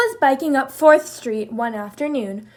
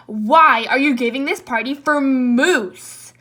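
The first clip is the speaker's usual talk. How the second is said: demanding; 6 dB louder than usual. Acted. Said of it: "he demanded".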